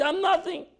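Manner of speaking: high, breezy mock humility; glib mock humility. Shown as a demonstration. Rabbi mocking easy humility, breezy and high. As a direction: toss it off as if it costs nothing. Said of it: "That's easy".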